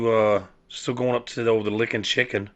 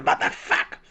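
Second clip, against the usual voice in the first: retold cussing. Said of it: "I'm literally cussing".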